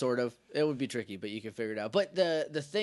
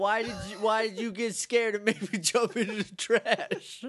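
mock outraged woman; 6 semitones higher than usual. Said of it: "And she yells at him".

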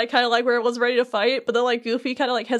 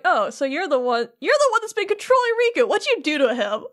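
indignant outburst; 4 semitones higher than usual. Retold or imitated. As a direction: flare up at the villain, mock-angry. Sora confronts Vexen about Riku.

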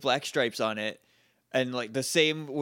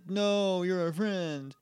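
mock plea; 4 semitones higher, much slower than usual. Mocking the Rangers' plea to the robot.

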